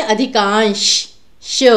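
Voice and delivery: अधिकांश ending on straight-tongued श; अधिकांश, then श shown alone; palatal श. Shown as a demonstration. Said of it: "जीभ सीधी रहती है".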